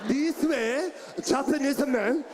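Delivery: lightly imitated Japanese man's accent. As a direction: give a mock Japanese accent from the diaphragm. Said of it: "When a Japanese man talks".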